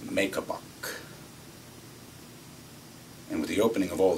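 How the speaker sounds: lightly played folksy boss lecture; a touch of the gentleman farmer, spelling it out; understated country-squire number with punched openings; gentleman farmer act. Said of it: "I'm doing my gentleman farmer number".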